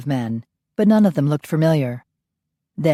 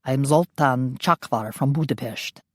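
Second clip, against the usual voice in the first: put-on Hungarian accent; 3 semitones lower than usual. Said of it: "his accent was thicker".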